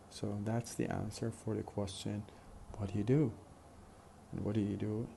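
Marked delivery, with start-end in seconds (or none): 2.8-5.1 "What do you do" with "What" and the last "do" strong, the middle weak. Shown as a demonstration. Teacher modelling the stress pattern of the question. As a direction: hit the first and last words, swallow the middle. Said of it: "stress pattern strong, weak, weak, strong".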